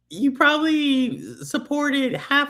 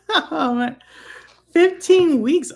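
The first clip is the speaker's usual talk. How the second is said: 1 surprised exclaim; 6 semitones higher, 6 dB louder, slower than usual. Real, not acted. Surprised at pregnancy news.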